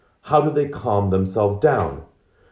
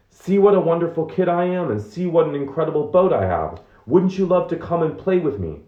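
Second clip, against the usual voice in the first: put-on high, bright, boastful child voice, pitched well up; proud little kid; 9 semitones higher than usual. Author voicing his boastful five-year-old self in the photo, high child voice. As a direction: show off your toy boat like a beaming five-year-old.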